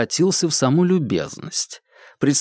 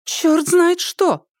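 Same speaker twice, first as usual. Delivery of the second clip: much higher, slow indignant cry; angry outburst; much slower than usual. Acted. Anzhelika angry that the doctor left, a slow high indignant cry. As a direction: drag it out, offended and fuming. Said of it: "рассердилась женщина".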